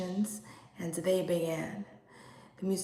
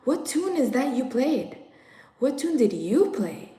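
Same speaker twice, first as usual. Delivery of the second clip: alarmed question; 5 semitones higher, 4 dB louder than usual. Acted. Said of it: "asked each other".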